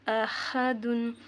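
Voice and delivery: अहदुन said smoothly, slowly, no catch at the hamza; अहदुन drawn out evenly, no glottal jerk. Shown as a demonstration. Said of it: "यहाँ पे हम झटका लेके नहीं". (अहदुन बिना झटके के, धीरे)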